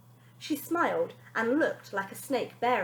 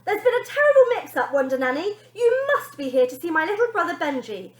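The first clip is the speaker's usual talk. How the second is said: put-on higher, louder girl voice; Bonnie pleading; 7 semitones higher, 8 dB louder than usual. Bonnie nervously redirecting the nanny to her brother. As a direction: talk your way out fast.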